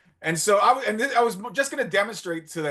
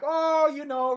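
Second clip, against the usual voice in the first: imitating the women; 10 semitones higher, slower than usual. Imitating women answering casually.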